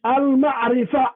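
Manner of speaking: "Al-Ma'rifa" said slowly the Arabic way; slow Arabic "Al-Ma'rifa" demo; Arabic pronunciation. Shown as a demonstration. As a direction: model "Al-Ma'rifa" with care for learners. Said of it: "take an Arabic".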